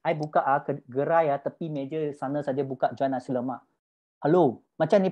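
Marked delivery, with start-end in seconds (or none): 0.1-3.7 low, humble brush-off; shy seller belittling the stall; modest downplaying. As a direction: play it down, voice dropped low.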